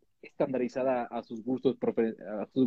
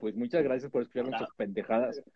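fresa voice. Acted. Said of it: "Por qué sigo hablando como fresa".

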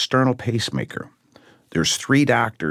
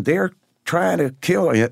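retold alarmed wife; 10 semitones higher than usual. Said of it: "And she's saying".

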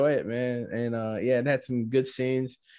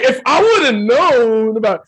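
mock distraught mother; 8 semitones higher, 12 dB louder, slower than usual. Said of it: "she was like".

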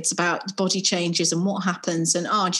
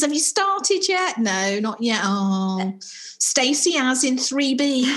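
higher, slow, eager gossipy whispers among friends; lightly voiced schoolgirls; 4 semitones higher, slower than usual. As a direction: girls comparing notes at school. Schoolgirls gossiping about periods.

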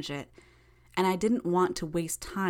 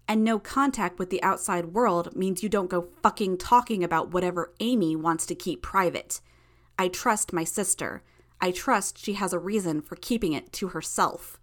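angry warning; 2 semitones higher, 4 dB louder than usual. Acted. Hero angrily warning villain.

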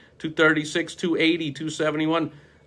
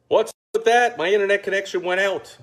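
sudden high puzzled question; surprised; 5 semitones higher than usual. Real, not acted. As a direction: caught off guard, pitch jumps up. Internet connection suddenly drops.

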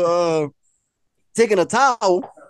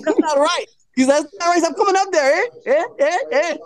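imitating a rapper; 8 semitones higher than usual.

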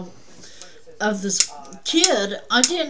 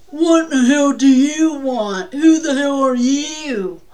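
louder hostile bark from the father; angry dad at the door; 4 semitones higher, 8 dB louder than usual. Retold or imitated. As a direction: snap at the stranger like a hostile dad.

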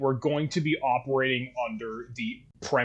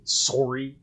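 Canadian accent. Shown as a demonstration. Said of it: "She hears it when I say".

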